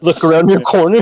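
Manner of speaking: put-on teasing British-accent echo; mock the Brit's accent like a cartoon character; hammed-up British accent; mimicked British accent. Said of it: "Stewie from Family Guy".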